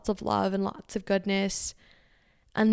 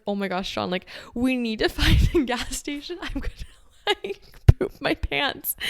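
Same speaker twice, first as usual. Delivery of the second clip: panicked; 4 semitones higher than usual. Retold or imitated. Retold panic to boyfriend.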